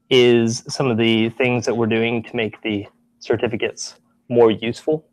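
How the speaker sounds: short of breath. Real, not acted. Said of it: "running out of breath".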